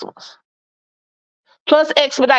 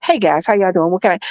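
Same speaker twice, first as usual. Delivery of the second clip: not feeling fluffy; 4 semitones lower than usual. Shown as a demonstration. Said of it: "this is my voice when I'm not feeling fluffy".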